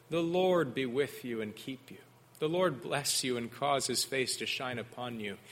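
gentle, reverent benediction; solemn blessing. Shown as a demonstration. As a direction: pronounce it softly as a real blessing. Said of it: "God's chosen blessing for his priests to pronounce".

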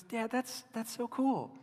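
sweet daughter. Retold or imitated. Daughter politely humoring her dad, lightly voiced sweet teen. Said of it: "she's so sweet".

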